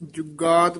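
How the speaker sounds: ਜੁਗਾਦ with a pressed, doubled g; firm middle g in ਜੁਗਾਦ; slightly tight. Shown as a demonstration. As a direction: say ਜੁਗਾਦ as "jug-gaad". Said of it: "ਥੋੜਾ ਜਿਹਾ ਕਸ ਕੇ ਉਚਾਰਨ ਕਰਨਾ".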